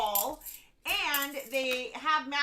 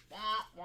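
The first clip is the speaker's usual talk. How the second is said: wordless muted-trombone wah-wah; Peanuts adult voice; 2 semitones lower than usual. Acted. Imitating the teacher on Peanuts, wordless wah-wah drone. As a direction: imitate the droning cartoon teacher. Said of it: "the teacher on Peanuts".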